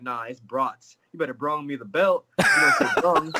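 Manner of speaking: a mother correcting her son's grammar; strict mom correcting. Retold or imitated. Fighter imitating his mom scolding his English. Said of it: "she'd be like".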